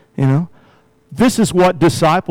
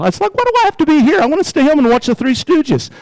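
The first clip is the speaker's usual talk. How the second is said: put-on childish whine; 10 semitones higher, faster than usual. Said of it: "I remember my first day at school".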